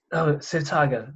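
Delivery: mock English accent, drawn out. Podcaster imitating the English interviewer in a mild English accent. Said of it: "this is my English accent".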